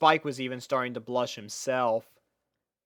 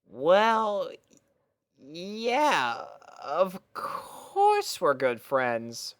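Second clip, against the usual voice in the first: put-on lightly raised, easygoing boy voice; a hint of a boyish friend; casual young dragon; 5 semitones higher, much slower than usual. Young dragon casually greeting his friend, easygoing boy voice.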